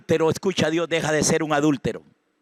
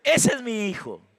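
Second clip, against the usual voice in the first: higher-pitched mock exclamation of recognition; acted parent's recognition; 6 semitones higher than usual. Mother picking out her child among fifty, acted exclamation. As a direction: exclaim it as a parent would, without shouting. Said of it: "o gritando, usted dice".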